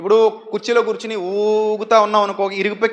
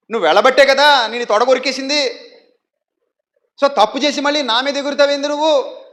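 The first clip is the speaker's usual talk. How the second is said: scolding wife; 3 semitones higher, 3 dB louder than usual. Retold or imitated. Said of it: "మీ ఆవిడ ఏమంటది".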